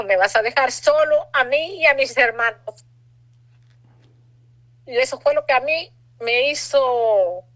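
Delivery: holding back crying as she goes on; real emotion still in the voice; voice breaking. Real, not acted. Retelling son's words, emotional.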